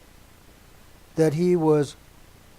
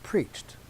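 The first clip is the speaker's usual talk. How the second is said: preached said alone and slow; single out preached; stress on preached; 2 semitones higher, 3 dB quieter than usual. Shown as a demonstration. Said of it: "Emphasizing the word".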